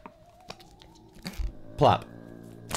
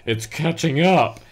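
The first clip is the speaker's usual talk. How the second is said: panicked scream; 3 semitones higher, 5 dB louder than usual. Acted. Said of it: "Andy screamed".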